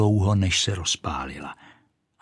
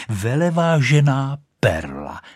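flattered; 4 semitones higher, 4 dB louder than usual. Acted. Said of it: "tak to řekl".

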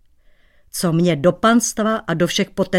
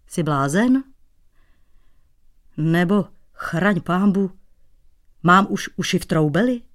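grumpy hoot. Acted. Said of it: "a houkl nevrle".

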